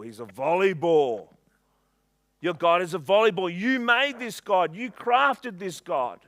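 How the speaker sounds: loud, scornful mocking of a false god; taunting Elijah. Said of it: "He's like".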